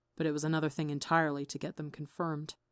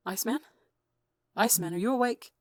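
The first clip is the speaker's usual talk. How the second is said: urgent calling; 6 semitones higher, faster than usual. A narrator's reading. Kneeling over the injured man.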